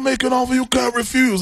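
high, sung-out Godfather impression. Host plays mob boss in charge of show, sung-out Godfather impression. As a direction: croon the line like the Godfather. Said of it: "I'm the godfather right now".

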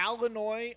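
"Illinois" starting with AL, pitched high; exaggerated A in Illinois. Shown as a demonstration. Cohost protesting the accused pronunciation, exaggerated mispronunciation. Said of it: "These A's".

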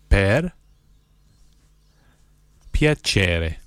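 each word set apart by long pauses; one word, pause, next word; slow, word by word. Shown as a demonstration. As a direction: spell it out slowly for learners to repeat. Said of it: "then I'll say one word at a time slowly".

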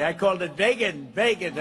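"vegan" said vay-gun twice; wrong pronunciation. Shown as a demonstration. President showing how he said vegan. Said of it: "pronounce that word properly".

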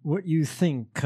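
slow, smooth radio-host imitation; Mike Pence radio voice. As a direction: lightly put on a talk-radio drawl. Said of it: "Mike Pence's radio voice".

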